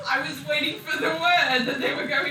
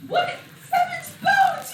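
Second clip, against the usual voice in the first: surprised; 12 semitones higher, 4 dB louder than usual. Acted. Character exclaims in alarm.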